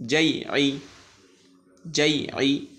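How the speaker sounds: জাইআই rattled off quickly and lightly. Shown as a demonstration. Teacher showing pupils the unstopped reading, fast. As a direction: clip জাইআই short and quick. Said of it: "খুব দ্রুত".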